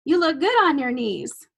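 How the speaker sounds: high loud Oh, then slow and suggestive; slow suggestive Southern man leering over the desk; leering Southern gentleman. Retold or imitated. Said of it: "a lovely Southern gentleman ... says".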